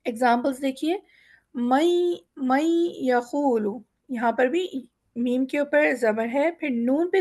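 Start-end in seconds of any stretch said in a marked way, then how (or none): 2.4-3.8 مَن یَقُولُ with the noon merged into a nasal ya; teacher demonstrates idgham with ghunna; nasal ghunna merge. Shown as a demonstration. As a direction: glide the noon into the ya with a light nasal hum. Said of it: "ایک نون کا غنہ دیتے ہوئے یا کی آواز نکالیں گے".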